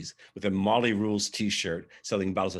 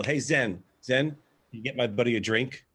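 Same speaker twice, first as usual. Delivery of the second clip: calling out; 4 semitones higher, 5 dB louder than usual. Retold or imitated. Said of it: "I yell".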